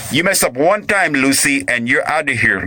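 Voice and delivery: hammed-up husband's warning; mock warning. Repeats warning in threatening husband voice.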